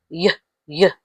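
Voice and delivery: "y, y" as two short yuh syllables; Y sound. Shown as a demonstration. Teacher showing the Y sound, Y sound. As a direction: sound out "y" alone, separately. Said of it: "Y sound is".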